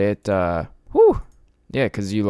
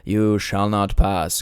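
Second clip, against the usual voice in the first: mock Gandalf; slower than usual. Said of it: "I'm like Gandalf with this shit".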